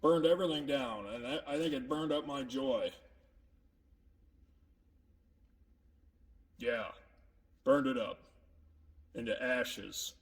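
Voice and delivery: gloomy and subdued; sad. Acted. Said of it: "Makes me kinda sad".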